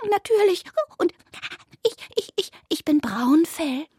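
high squeaky stuttering voice; nervous rabbit. A narrator's reading. Rabbit tells the cats its name, stammering.

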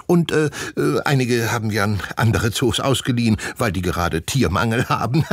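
high, falsely cheerful villain voice; a schemer playing the kind host; shifty zoo director. A narrator's reading. Doktor Murks tells the class they must sleep in the zoo, sly and chirpy.

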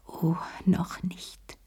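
hushed, slowed self-warning; to herself, whispered. A narrator's reading. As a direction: let Oh noch nicht fade to a breath. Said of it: "sagte sie sich".

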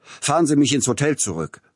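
high, loud, rough command; rough shout. Acted. Tchaikovsky ordering the coachman back to the hotel, rough loud command. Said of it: "ließ nun eine raue hören".

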